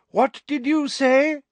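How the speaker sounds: high, slow, exaggerated question; Umbridge, loud and slow. A narrator's reading. Inspector cupping her ear at the teacher, loud and slow. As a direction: ask as if unable to hear. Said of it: "said Professor Umbridge loudly".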